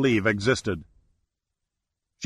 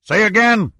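much higher, louder yell; 9 semitones higher, 5 dB louder than usual. A narrator's reading. Sandecker yelling to the powerboat, urgent yell. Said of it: "he yelled".

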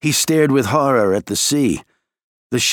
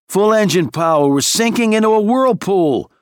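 urgent shout; 10 semitones higher, 3 dB louder than usual. A narrator's reading. Urgent order into the microphone.

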